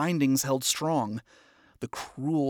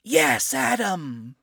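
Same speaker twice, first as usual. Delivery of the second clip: loud, higher unison reply; chorus of soldiers; 8 semitones higher, 5 dB louder, much slower than usual. Acted. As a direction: answer as the troops. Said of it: "came a chorus of female voices".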